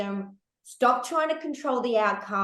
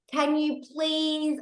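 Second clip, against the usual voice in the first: pleading; 5 semitones higher, much slower than usual. Retold or imitated. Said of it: "I wasn't begging".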